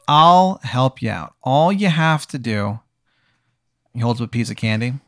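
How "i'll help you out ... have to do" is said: drawn-out, deliberate offer; slow tempting offer. Acted. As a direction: stretch the words as you make the offer. Sugar King makes a tempting offer.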